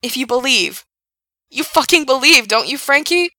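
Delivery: passionate yelling. A narrator's reading. Gerard pleading, yelling on.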